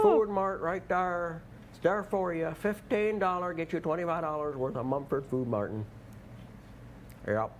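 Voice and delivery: high-pitched mock Minnesota accent. Host plays a Minnesota guy selling Mumford, mock Minnesota accent. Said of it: "That was a Minnesota guy talking".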